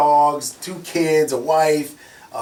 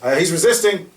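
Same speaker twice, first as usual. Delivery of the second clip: mock officer; 8 semitones higher, 8 dB louder than usual. Officer falsely claims resisting.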